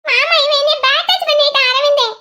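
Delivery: high-pitched tattling to an elder; complaining. Acted. Complains to uncle about him. (உயர்ந்த குரலில் புகார் சொல்லும் தொனி)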